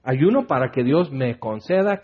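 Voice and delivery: ordinary talk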